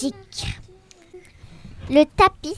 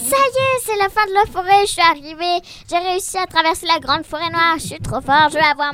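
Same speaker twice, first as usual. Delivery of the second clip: excited; 3 semitones higher, faster than usual. Acted. Alice thrilled at forest's end.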